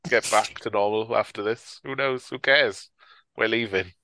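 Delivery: dismissive, as if washing your hands of it; lightly acted indifference; shrugged off. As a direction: imitate a careless shrug. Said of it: "they sort of shrug off".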